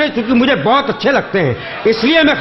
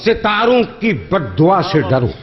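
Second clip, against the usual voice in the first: measured, lingering verse delivery; poetry recitation; slower than usual. Acted. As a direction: recite each line slowly for effect. Repeats the quatrain.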